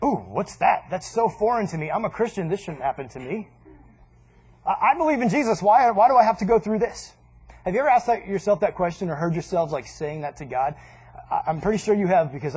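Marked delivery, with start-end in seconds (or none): 0.0-7.1 whiny Christian. Retold or imitated. Mocking a whining Christian.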